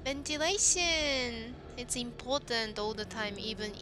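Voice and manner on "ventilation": drawn-out exclamation. Real, not acted. Calling out a word in game.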